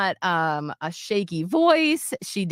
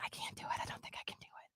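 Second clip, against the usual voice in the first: retold whisper; 23 dB quieter, faster than usual. Tearful friend before funeral reading.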